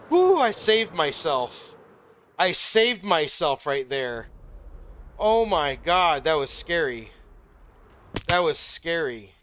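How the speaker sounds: loud, slow, breathless relief after a near fall; real shaken relief. Real, not acted. Streamer nearly fell into the void, loud shaken relief. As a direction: shout out the fright you just escaped. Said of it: "my heart is beating so fast".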